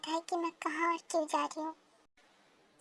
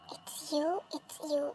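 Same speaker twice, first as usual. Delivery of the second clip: tender whisper; much slower than usual. Acted.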